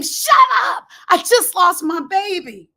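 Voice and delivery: high, strained mock scream; wanting to scream. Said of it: "I wanted to scream".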